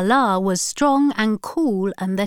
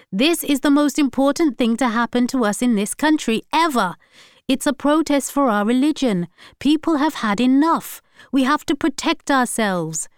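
raised, insistent lecture; heated; 6 semitones higher, 3 dB louder than usual. A narrator's reading. Samad lecturing his wife about the protest, heated. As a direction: hammer home why it matters.

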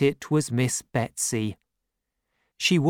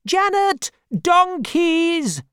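loud, high alarmed shout; aunt spotting donkeys in the garden; cried out alarm; 5 dB louder, slower than usual. Acted. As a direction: yell it suddenly. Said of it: "three more cries of".

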